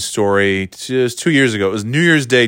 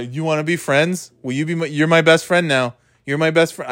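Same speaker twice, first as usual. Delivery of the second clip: higher, overeager silly voice; total dummy; 7 semitones higher than usual. Retold or imitated. Dad trolling strangers in a kids' game, acting like a dummy. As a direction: pester them for friendship like a clueless pest. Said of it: "act like a total dummy".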